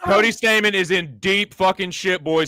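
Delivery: fast, loud fight call; excited call. Real, not acted. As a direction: yell the knockdown play-by-play. Knockdown call, hosts shouting.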